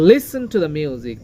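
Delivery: slow line with Listen stressed on Lis; first-syllable stress. Shown as a demonstration. Teacher leading repeat-after-me, stress opening Listen. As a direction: lean on the start of Listen. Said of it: "লিসেন এর প্রথম অংশে stress রয়েছে".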